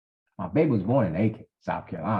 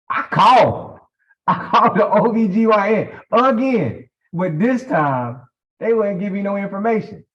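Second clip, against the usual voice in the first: laughing disbelief; 9 semitones higher, 5 dB louder than usual. Real, not acted. Exasperated retelling with a laugh.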